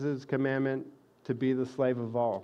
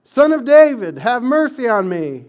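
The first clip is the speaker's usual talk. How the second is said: much higher and louder desperate plea; desperate beggar yelling for mercy; crying out all the more; 8 semitones higher, 12 dB louder than usual. Retold or imitated. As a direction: shout it over the crowd hushing him. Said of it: "he kept crying out all the more".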